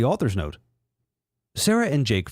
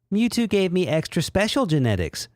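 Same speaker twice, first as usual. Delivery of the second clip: Umbreon voice; 6 semitones higher than usual. Acted.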